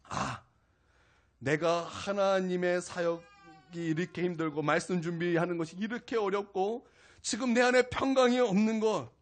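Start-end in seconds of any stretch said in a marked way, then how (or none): none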